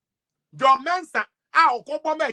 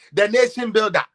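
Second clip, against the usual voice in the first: "The nation builder" with "nation" hit louder; mock proclamation of "The nation builder", "nation" stressed; louder mock praise; 6 dB louder than usual. Shown as a demonstration.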